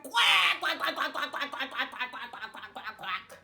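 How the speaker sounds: rooster quacking, fading. Acted. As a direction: give it a go as a duck. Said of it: "opened his mouth, and went".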